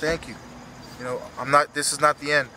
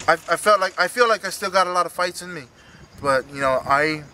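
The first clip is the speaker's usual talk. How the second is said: choked up, pushing through; emotional; 3 semitones higher than usual. Real, not acted. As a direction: voice rising with emotion. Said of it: "sorry, I'm kinda emotional".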